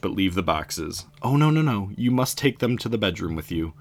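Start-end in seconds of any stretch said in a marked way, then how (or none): 1.2-3.7 insistent. Acted. Maisie insists, raised voice.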